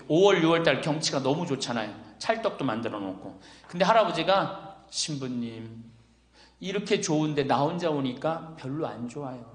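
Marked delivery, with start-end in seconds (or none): 4.9-9.4 low, hushed retold confiding; imitated wistful confession to a priest; understated sadness. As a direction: softly voice a lonely widower. Lonely widower confides in the priest.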